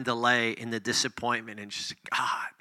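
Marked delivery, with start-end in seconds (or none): 2.1-2.5 heartfelt plea. Shown as a demonstration. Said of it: "you're pouring your heart out".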